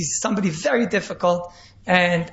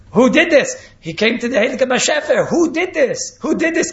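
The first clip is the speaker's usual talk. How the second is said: raised, higher demanding cry; calling out who did this; 4 semitones higher, 4 dB louder than usual. Acted. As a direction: demand it loudly like a shocked master.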